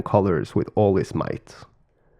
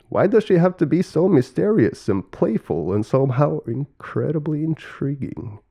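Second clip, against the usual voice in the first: lilting, higher-pitched baffled questioning; exasperated puzzlement; 5 semitones higher than usual. Acted. Brother puzzling over the creator's riddle, exasperated. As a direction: wonder aloud, pitch swinging up.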